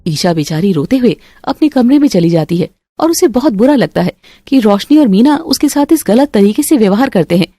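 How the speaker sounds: usual speaking voice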